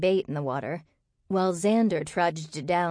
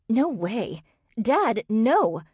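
higher, louder cry of refusal; alarmed protest; 5 semitones higher, 4 dB louder, much slower than usual. A narrator's reading. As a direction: protest in rising alarm to your father. Daughter refuses being chosen.

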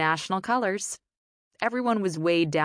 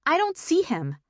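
groaning; 11 semitones higher than usual. A narrator's reading. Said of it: "Michelle groaned".

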